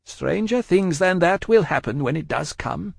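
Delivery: high-pitched, unyielding Madame; Madame, composed and resolute. A narrator's reading. Madame answers her pleading husband, high and resolute.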